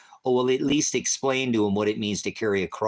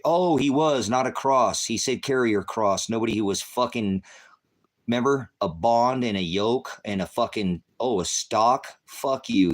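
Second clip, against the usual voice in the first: angry shouting; 3 semitones higher, 4 dB louder than usual. Real, not acted. Yelling at a commenter about the cross.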